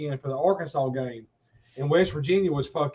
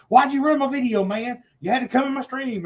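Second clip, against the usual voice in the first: higher-pitched mock indignant complaint; imitated mad friend; 5 semitones higher than usual. Retelling the friend mad about his ruined video, mock angry and higher. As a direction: play a streamer scolding an intruder. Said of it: "He got mad at me".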